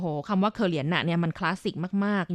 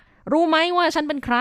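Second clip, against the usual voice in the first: boastful challenge; 8 semitones higher, 3 dB louder than usual. Retold or imitated. Translating a boastful catchphrase.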